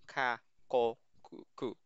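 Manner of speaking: ka, ko, ku said with a crisp hard k; hard k syllables, the last ku fading to a whisper; hard C sounds. Shown as a demonstration. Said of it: "ang bigkas mo dito ay hard C".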